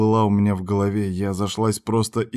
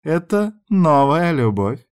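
playful wink; 7 semitones higher, slower than usual. A narrator's reading. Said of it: "подмигнула мне она".

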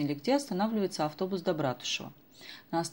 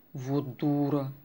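whisper; 3 semitones lower, much slower than usual. A narrator's reading. Unvoiced aside.

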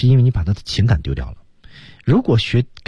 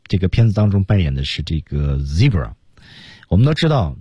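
ordinary talk

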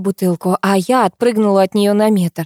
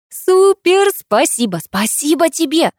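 high, loud burst of delight; elated, squealy gratitude; jumping for joy; 9 semitones higher, 4 dB louder, slower than usual. A narrator's reading. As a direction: gush thanks as if bouncing up and down. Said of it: "запрыгала я".

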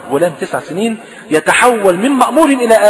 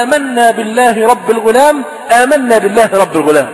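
crowd's declaration; 3 semitones higher than usual. Retold or imitated. People rising to declare their faith, raised proclaiming voice.

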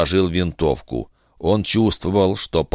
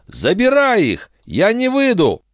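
raised voice. Acted. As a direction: shout the refusal out the window. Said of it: "Дефин повысила голос".

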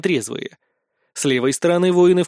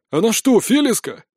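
high astonished question; gasping surprise; 6 semitones higher than usual. A narrator's reading. Crowd recognizing the mercenary, gasping surprise. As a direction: gasp it out as the crowd recognizes her. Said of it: "ахают со стороны толпы".

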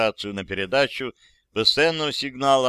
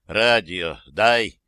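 slow, loud repeated demand; insist, spell it out slowly; slow insistent demand; 4 semitones lower, 4 dB louder, much slower than usual. Acted. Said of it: "повторил граф Ежи".

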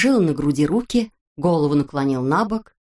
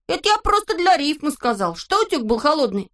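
put-on much higher, proud kid voice; boastful Neznaika; 9 semitones higher than usual. A narrator's reading. Neznaika boasts to his friends in a high voice. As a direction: show off the new poems.

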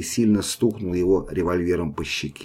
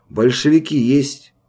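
loud, slow, higher bark; barked demand; 6 semitones higher, 5 dB louder than usual. Acted. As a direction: stamp in and demand it. Sergeant bursting into the hut.

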